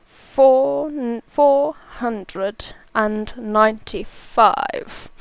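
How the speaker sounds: a hint of Snape, slowed numbers; Snape impression. Viewer asked for it, streamer tries Snape. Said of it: "say it in Snape's voice".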